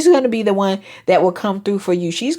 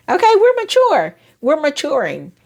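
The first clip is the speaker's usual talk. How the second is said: mock proud; 8 semitones higher than usual.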